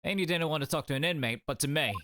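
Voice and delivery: a hint of a Scottish accent; attempted Scottish accent. Prison governor questioning his visitor, lightly attempted Scottish accent. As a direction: try a light Scottish lilt. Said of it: "He's Scottish?".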